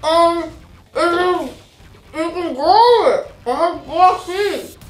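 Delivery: cheeks stuffed full of popcorn; mouth full. Real, not acted. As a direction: mumble through a full mouth. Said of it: "I didn't understand what she said".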